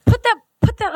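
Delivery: high, loud, pleading outburst; exasperated plea. Acted. Co-host begging sad pre-orderers to stop, exasperated plea. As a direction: beg them in a high, worked-up voice.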